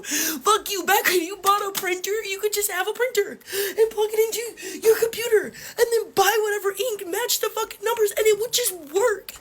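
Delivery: tearful anger. Real, not acted. Tearful rant about old printers.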